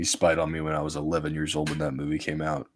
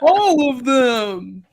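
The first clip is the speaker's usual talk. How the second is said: laughing; 8 dB louder, much slower than usual. Real, not acted. Laughing, very slow.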